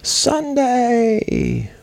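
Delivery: high booming arena hype yell; monster truck announcer. Acted. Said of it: "that was my monster truck impression".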